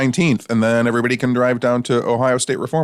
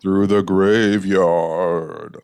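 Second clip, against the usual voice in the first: spooky slow drawl; 2 semitones lower, much slower than usual. Acted. Echoes spooky line slower.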